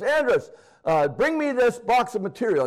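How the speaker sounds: a hint of a woman calling him over; lightly voiced coworker calling.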